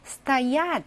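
стоят said sta-YAT; стоят with weight on the final syllable; unstressed О as A. Shown as a demonstration. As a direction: reduce О to A in стоят. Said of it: "강세가 없어서 아가 되겠습니다".

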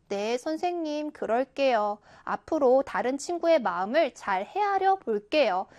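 a demonstrated contrite, courteous reply; humble, accepting. Shown as a demonstration. Student accepting the homeroom teacher's advice, humble and polite. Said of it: "인정하는 말투로".

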